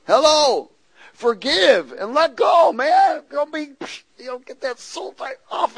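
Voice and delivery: loud, high shout; preaching shout. Real, not acted. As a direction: shout it at the congregation.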